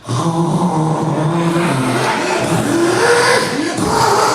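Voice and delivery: hammed-up loud cougar cry; mock cougar noise. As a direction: imitate her strange noise. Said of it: "the cougar just turned around and went".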